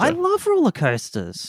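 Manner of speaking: gushing. Real, not acted. Gushing about rides.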